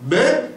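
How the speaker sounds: même said sharply high as the key word; stress on même. Real, not acted. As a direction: hit même hard, rising. Teacher stressing a key condition.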